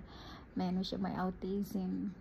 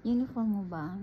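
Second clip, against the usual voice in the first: surprised question; 3 semitones higher than usual. Retold or imitated. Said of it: "Sabi niya".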